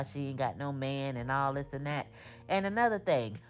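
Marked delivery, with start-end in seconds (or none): 2.5-3.4 higher and faster, fed-up scolding; exasperated rant. Real, not acted. Vlogger scolding the shop owner, exasperated. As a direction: lecture her like a friend who should know better. Ranting at cast member about cameras.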